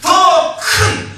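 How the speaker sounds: hammed-up claim of what God owes him; mock demanding shout. Pastor demanding results from God.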